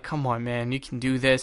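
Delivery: hushed come on man, you can do this; quiet self pep talk. Retold or imitated. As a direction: mutter encouragement to yourself. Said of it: "I am like".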